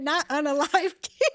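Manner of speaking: high voice breaking into a laugh; imitating a friend. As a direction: mimic her objection through laughter. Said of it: "I can hear her right now".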